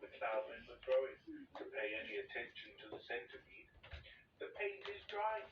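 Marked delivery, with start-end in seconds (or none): 4.4-5.5 high, whining moan. A narrator's reading. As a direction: moan it in despair. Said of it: "he moaned".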